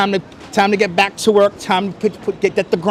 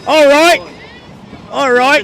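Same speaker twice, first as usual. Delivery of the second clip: put-on British accent; 6 semitones higher than usual. To viewers from Britain, a playful put-on British accent.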